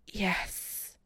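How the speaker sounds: breathless whispered moan. Acted. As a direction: let the yes melt into a moan. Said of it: "Chris moans".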